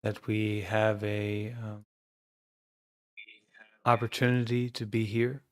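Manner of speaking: calm, measured meditation guidance with long pauses; guided meditation. Acted. Teacher guiding an online group to notice their breathing, calm meditation voice. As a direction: guide the group gently into awareness, leaving silences between phrases.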